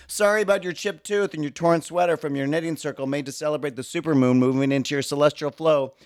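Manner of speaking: high, fast fake-sweet apology; sweet on top, vicious beneath; mock apology. Pedestrian faking an apology after a body check, high and snide. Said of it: "body check them and say".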